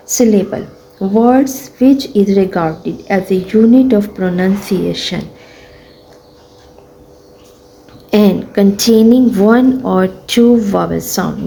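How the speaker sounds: slow, careful textbook reading; teacher reading a sentence to pupils; slow reading aloud. Shown as a demonstration. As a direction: read each word slowly for the class.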